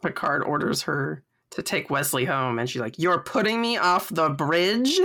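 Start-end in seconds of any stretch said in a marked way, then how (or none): 3.0-5.0 slower, offended question, a touch raised; doctor offended at being ordered off the bridge; indignant disbelief. Retold or imitated. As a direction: ask it as if insulted, glaring. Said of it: "shoots fucking daggers at him".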